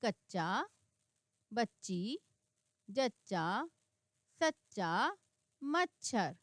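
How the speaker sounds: one word at a time, stressing the doubled च; steady model reading for learners; word-list reading. Shown as a demonstration. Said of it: "किस तरीके से शब्द में प्रयोग किया गया है".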